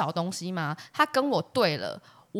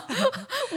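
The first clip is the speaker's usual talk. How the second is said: sudden high-pitched laugh; high burst of laughter; 14 semitones higher, 4 dB quieter than usual. Real, not acted. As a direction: squeal with laughter. Laughing at own call. (尖声大笑)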